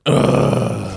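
long groan of mock exasperation; imitated disgusted groan. Cohost voicing dismayed Canadian listeners, drawn-out groan. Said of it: "Canadian listeners just went".

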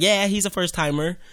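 a hint of a woman's voice. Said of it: "that's my woman voice".

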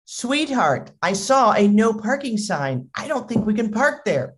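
lightly voiced wife; concerned wife. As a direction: imitate a wife objecting sweetly. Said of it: "his wife says".

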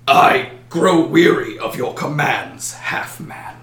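slow dragon voice, last word breathed out; weary dragon. Acted. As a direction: drag out each word like a bored great beast. The dragon speaks to the halfling.

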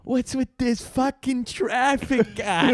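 a slow, lightly put-on Boston accent; a hint of a grumpy Boston gorilla in traffic. Friends imagine gorilla Coco talking in a mild Boston accent. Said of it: "Coco was like".

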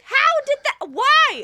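high squeaky confused voice, imitating him; mock confused friend. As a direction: pitch way up, a baffled friend's stammer. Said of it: "He's like".

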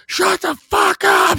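very high, drawn-out scream; hammed-up shrieking yell, stretched out; imitated yelling. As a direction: mimic the ex screaming at the dogs. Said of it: "She fucking yelling at the dogs".

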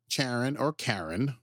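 "Charon, or Karen" as two variants, slowly; alternative pronunciations. Shown as a demonstration. Host offering ways to say the moon's name, slow alternative pronunciations. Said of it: "depending on how you wanna pronounce it".

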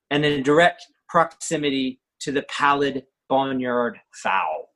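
overwrought, pompous poetry recital; bad poem reading. Shown as a demonstration. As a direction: read it like grand verse. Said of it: "So I'm gonna read you a poem, a very bad poem".

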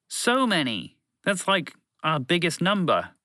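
high, emphatic "So many!"; lightly voiced alien creature.

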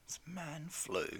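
hoarse, under the weather; croaky sick voice. Real, not acted. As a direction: croak it out with a cold. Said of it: "Sound like you have a frog in your throat".

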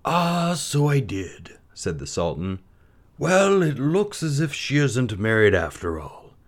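lightly voiced high, slow sultan; a touch of a scheming king; a hint of a sultan. A narrator's reading. Sultan answering the mother, lightly voiced and scheming.

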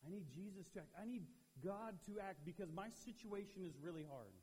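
need pressed harder in a pleading cry; stress on need. Shown as a demonstration. Youth pastor voicing a desperate prayer, pressing need. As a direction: lean on the word "need". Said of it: "you're like".

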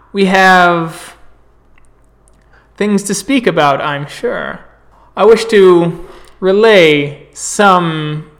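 lightly voiced traveling storyteller, welcoming and proud; proud orator. Galliard greeting the sept at evening talks, lightly grand. GM voices the visiting Garou speaker.

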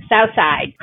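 light Pittsburgh twang on south side; Pittsburgh accent. Retold or imitated. Friend joking about Pittsburgh, Pittsburgh accent. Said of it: "as they say in Pittsburgh".

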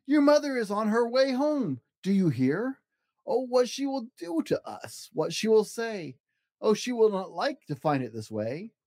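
high, worried fish voice; fearful fish. Acted. Fish warning of mother, mildly fearful. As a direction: tremble with dread. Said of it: "our fish shook with fear".

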